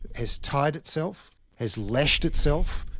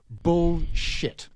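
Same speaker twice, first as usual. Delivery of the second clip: higher-pitched, emphatic dismissal; emphatic verdict; 5 semitones higher than usual. Acted. Bond managers answering Nicola Willis, emphatic dismissal. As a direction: deliver it as a blunt rebuttal.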